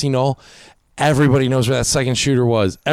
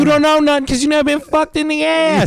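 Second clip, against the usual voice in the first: Kevin Bacon impression. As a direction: spit it out like a brutal prison thug. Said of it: "Kevin Bacon".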